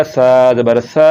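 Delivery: lisped Arabic tha on सा; no whistle. Shown as a demonstration. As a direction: say सा without any s-hiss. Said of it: "बगैर सीटी के".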